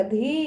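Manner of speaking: धी with the vowel held long. Shown as a demonstration. Teacher showing how far the matra carries, धी drawn out. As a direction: stretch the ee in धी. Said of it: "इसका उच्चारण दूर तक जाएगा".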